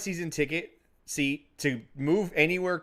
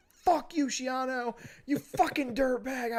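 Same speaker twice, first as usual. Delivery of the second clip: mock yell; 9 semitones higher, 4 dB quieter, slower than usual. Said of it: "I was like".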